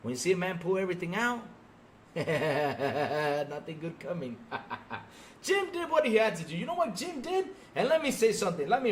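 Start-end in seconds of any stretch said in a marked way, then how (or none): 1.8-4.6 laughing. Real, not acted. Laughs at failing company.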